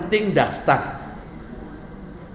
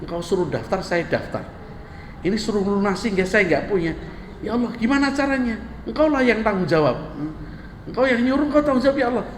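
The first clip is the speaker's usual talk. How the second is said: half-acted complaint to God. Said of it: "wadul kepada Allah".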